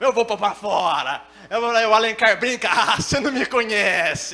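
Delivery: loud, mock raging tough guy bluster. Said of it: "a versão Super Saiyajin dele".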